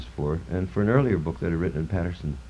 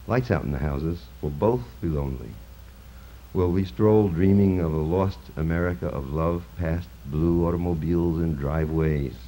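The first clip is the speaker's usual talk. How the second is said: poetry reading. Acted. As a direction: intone each line like an elegy. Reads his poem aloud.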